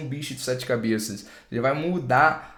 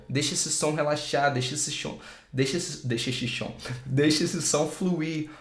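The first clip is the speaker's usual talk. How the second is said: soft and relaxed; 3 dB quieter than usual. Shown as a demonstration. Teacher softly coaxing students to relax the sound. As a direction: let it flow gently.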